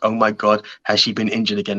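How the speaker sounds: ordinary delivery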